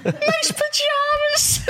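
high, slow laughing echo of the tease. Real, not acted. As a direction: laugh it out teasing. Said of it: "Oh, nice pyjama".

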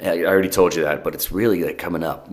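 coffee in mouth; talking between sips of coffee; while sipping a drink. Real, not acted. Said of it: "Sorry, I'm drinking coffee right now".

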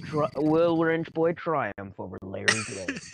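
dramatic announcer. Pretend. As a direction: announce it like a fight poster. Dramatic fight trailer tease.

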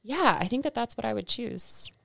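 whispering. Real, not acted. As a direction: breathe it out as a whisper. Whispered aside in podcast chat.

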